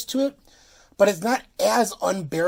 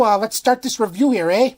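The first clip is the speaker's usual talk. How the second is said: mock Chicago accent, a bit louder, with a tagged-on eh; fake Chicago accent; 2 semitones higher, 5 dB louder than usual. Kicking off the beer review in a mock Chicago accent. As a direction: sign off the intro in a put-on Chicago accent. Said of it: "done with that fake, uh, Chicago accent".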